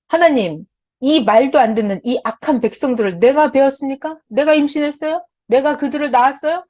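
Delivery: 억울함이 차오르는 모세의 기도, 점점 커지게; 하나님께 따지듯 원통하게 부르짖는 모세; Moses' anguished prayer. Retold or imitated. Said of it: "모세가 너무나 원통한 기도를 합니다". (원통한 모세의 기도)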